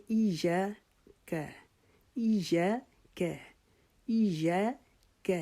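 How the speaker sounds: ایاک with یا drawn out, very slow; long یا. Shown as a demonstration. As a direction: hold the یا in ایاک for one alif. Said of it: "یا کو ایک الف کے جتنا لمبا".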